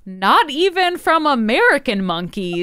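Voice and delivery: quoting a pompous orator. Retold or imitated.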